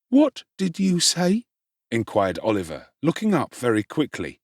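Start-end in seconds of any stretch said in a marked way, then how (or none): 0.1-1.5 put-on startled boy. A narrator's reading. Oliver challenged, quick reply.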